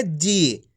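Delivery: जी with the ee held long and falling. Shown as a demonstration. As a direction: stretch the vowel of जी like a teacher. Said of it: "खींच के पढ़ा जाता है".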